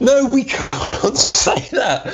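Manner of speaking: squeaky mock panic. High mock-panicked objection.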